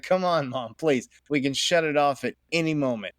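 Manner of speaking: imitating a kid begging mom; lightly acted, coaxing plea; pleading. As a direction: plead with mom, half in jest. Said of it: "he begged my wife".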